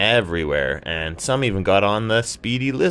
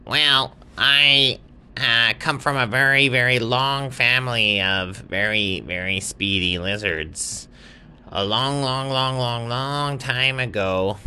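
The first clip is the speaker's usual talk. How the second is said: a lightly raised, higher lizard voice; storytelling lizard; 5 semitones higher than usual. Acted. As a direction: spin the old family tale as a chatty lizard. Lizard begins his family story.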